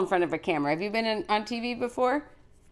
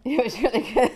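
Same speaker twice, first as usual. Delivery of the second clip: laughing echo; 4 semitones higher, faster than usual. Real, not acted. Host echoes child, laughing.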